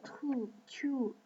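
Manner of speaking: slow, clumsy English accent on the title; bad English accent. Real, not acted. Showing viewers a webtoon title in a bad English accent. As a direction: sound out the English name with a poor English accent. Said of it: "j'ai un très mauvais accent anglais".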